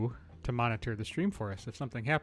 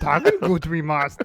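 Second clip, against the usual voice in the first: loud, belted delivery in a German accent; 5 semitones higher, 14 dB louder than usual. Asked to mix the two voices, answer the request in a German Yoda voice. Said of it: "I want to hear German Yoda".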